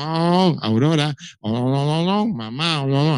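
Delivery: loud squawking parrot calls; hammed-up parrot squawking oh and Aurora. Shown as a demonstration. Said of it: "Así hablan los loros".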